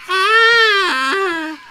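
long, high, loud scream; startled scream. Acted. Player greeting the little ghost, then a loud scream.

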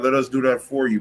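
ordinary talk, nothing marked

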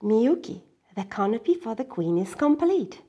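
a hint of tired grandfather; grandfather, worn out, lists the chores again; weary grandfather. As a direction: list it all out, worn down. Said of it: "grandfather said wearily".

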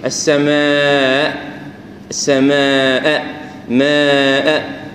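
السماء very slow, its final همزة fading out; خطأ: السماء بهمزة ضعيفة; weak final hamza. Shown as a demonstration. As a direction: drag out السماء and let the end hamza fade. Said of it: "ما تقول إيش؟".

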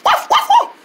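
high, short puppy barks; two quick high woofs; dog barking. Acted. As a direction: yap like a little dog. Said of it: "You belong to somebody?".

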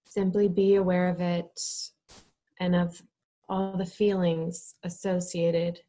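measured, calm instruction with space to breathe; guided meditation. Real, not acted. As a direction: lead them gently into stillness, phrase by phrase.

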